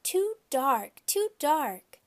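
put-on high, loud cry of a frightened little boy. A narrator's reading. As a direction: call it out in a scared child's voice. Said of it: "Sam cried".

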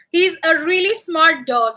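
squeaky voice for the dog; a touch of pet talk. Real, not acted. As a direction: owner praising the dog in a light squeaky voice. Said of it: "that was my pet voice".

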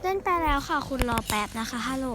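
polite, apologetic repeat; polite apology. Real, not acted. To a friend who missed the match, politely apologetic. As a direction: ask them kindly to wait a moment. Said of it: "ขอโทษได้ไหมล่ะ".

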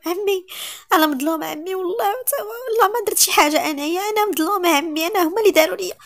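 high, tearful plea; tearful pleading. Acted. Niece crying and begging her uncle to believe her. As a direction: beg through tears to be believed.

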